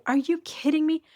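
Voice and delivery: high-pitched mock yell at her; imitating screaming at the sex worker; retold screaming. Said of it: "like, screaming at her".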